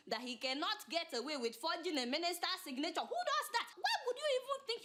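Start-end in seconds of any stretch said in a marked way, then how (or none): 3.0-4.8 high-pitched incredulous question; indignant disbelief. Acted. Indignant at the forger's nerve.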